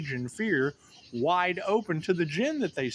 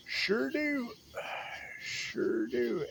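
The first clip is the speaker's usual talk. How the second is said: whisper; 7 semitones higher, 6 dB quieter, much slower than usual. Real, not acted.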